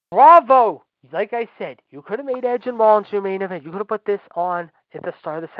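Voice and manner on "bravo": loud, high mocking cheer; bitter shouted bravo; sarcastic bravo. Real, not acted. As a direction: throw the praise back in scorn. Sarcastic applause at Vince.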